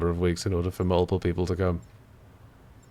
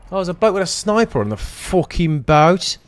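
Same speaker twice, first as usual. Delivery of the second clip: indignant; 9 semitones higher, 7 dB louder than usual. Real, not acted. Just killed in the game.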